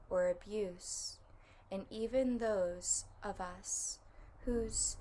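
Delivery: measured reading aloud with pauses between phrases; reflective excerpt reading. Acted. Reading listeners an excerpt before the guided meditation, reflective and measured. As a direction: read it as a heartfelt, deliberate recitation.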